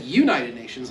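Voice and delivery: Midwestern pronunciation of "United Nations"; Ohio accent. Shown as a demonstration. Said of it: "like they do in Ohio".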